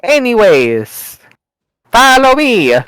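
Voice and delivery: a light, hammed-up Italian accent; mock Mario voice. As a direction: lead the party on as a cartoon plumber.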